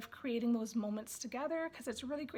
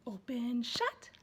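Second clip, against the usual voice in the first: playful sing-song; slower than usual. Shown as a demonstration. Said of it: "you can say".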